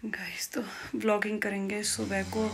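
soft unvoiced whisper; hushed goodnight sign-off. Real, not acted. Night sign-off, family sleeping.

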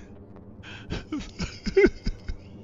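high, breath-caught sob of joy; real tearful gasping, half like laughter; emotional sob. Real, not acted. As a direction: let an overwhelmed sob escape. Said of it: "I'm so emotional now".

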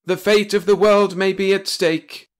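high, loud blustering boss; chief Metternich. A narrator's reading. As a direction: bellow like a pompous old chief. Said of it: "he went on".

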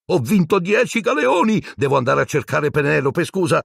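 high, breathless glee; excited hurry. Acted. Percy off to find Penelope, high and eager. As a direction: rush off delighted.

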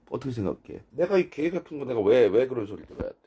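ordinary talk

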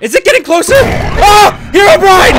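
high, very loud alarm; terrified shout. Real, not acted. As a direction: scream as it closes in. Figure approaches, jump scare.

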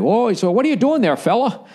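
high, friendly mock Canadian guard; Canadian border guard. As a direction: play the nosy border cop, chirpy and light. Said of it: "He's a Canadian dude".

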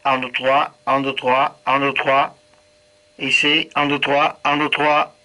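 tinny radio transmission; counting through a handheld radio; over walkie talkie. Real, not acted. Second radio test count.

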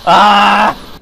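high, loud screams of disbelief; frantic yelling. Real, not acted. Player at the fight's finish, frantic yelling. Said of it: "when I yelled no".

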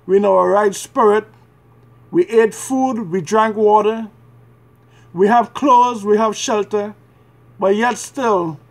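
earnest, measured prayer in short phrases; pleading prayer. Real, not acted. Praying to the Father for mercy and forgiveness, pleading. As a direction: pray as a penitent, pausing between pleas.

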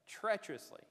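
"treacherously" isolated and stressed; pause, then deliver "treacherously" as the key word; emphasis on treacherously. Real, not acted. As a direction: put clear weight on "treacherously". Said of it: "I'm trying to emphasize that word".

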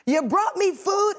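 high, drawn-out, booming delight; slow, high-pitched celebrity proclamation; Oprah impersonation. Acted. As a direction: stretch it out high like a talk-show queen. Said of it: "like, my Oprah impersonation".

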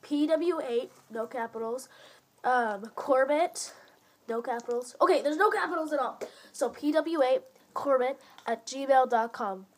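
slowly spelling out an email address; slow dictation. Shown as a demonstration. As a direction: say it slowly, piece by piece. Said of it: "I'll say it slow".

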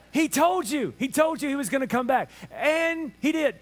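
high, sassy told-you-so; sarcastic. Acted. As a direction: playfully scold with emphatic pitch. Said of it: "slightest bit of sarcasm here".

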